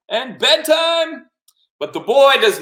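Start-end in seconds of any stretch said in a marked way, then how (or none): 0.4-1.3 very high, delighted call; excited octopus. Acted. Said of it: "He's so excited".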